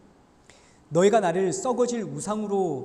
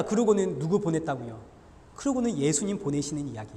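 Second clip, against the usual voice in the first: ordinary delivery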